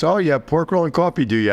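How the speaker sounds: high, mock-dumb customer. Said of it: "He goes".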